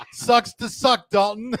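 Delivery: high, laughing taunt; gleeful teasing through laughter. Real, not acted. Reads taunting comment, laughing.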